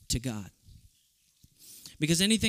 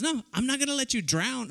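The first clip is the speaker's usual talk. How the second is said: mother's voice; 9 semitones higher than usual. Retold or imitated. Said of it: "And she goes".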